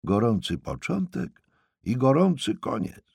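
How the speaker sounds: a restrained version of hollering; hollering old aunt. Acted. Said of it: "Darła się Ewi co sił w płucach".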